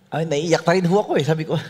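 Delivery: ordinary talk, nothing marked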